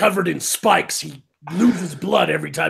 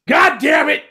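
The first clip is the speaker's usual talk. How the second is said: higher, louder hammed-up exasperated shout; mock outrage; 9 semitones higher, 4 dB louder than usual. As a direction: bellow it in fake frustration. Mock outrage at a joke answer.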